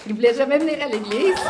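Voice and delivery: loud and high, full of joy; excited. Real, not acted. Telling the church he never came before, jubilant. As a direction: tell it with amazed delight. Joyful testimony climax.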